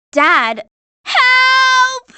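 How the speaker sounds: high, desperate call for help; cry for help. Acted. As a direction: shout up to Dad to save you. Trapped character calls for help.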